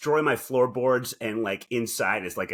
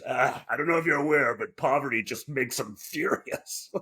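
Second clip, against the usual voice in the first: mock Ghostbusters line; 4 semitones higher than usual. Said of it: "There goes a deleted scene of Ghostbusters".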